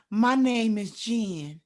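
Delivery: slow, deliberate mock confessional voice; imitating reality show narrator. Mocking a reality show confession to her friends, slow and measured. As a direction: lightly mimic a weight-loss show narrator. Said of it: "That's how they be sounding".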